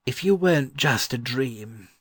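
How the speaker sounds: put-on old gentleman's voice with a smile; smiling answer. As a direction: answer fondly through a smile. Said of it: "he answered, smiling".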